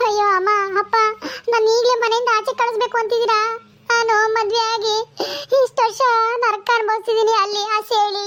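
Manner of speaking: tearful, wounded protest; crying. Acted. Daughter told to leave her parents' home, crying. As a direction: plead through tears, breaking into sobs at the end. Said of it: "ಯಾಕ್ ಅಳ್ತಿದ್ಯಾ?".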